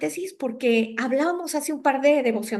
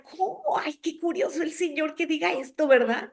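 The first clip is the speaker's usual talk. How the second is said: amused mother; 3 semitones higher than usual. Retold or imitated. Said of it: "Y se reía".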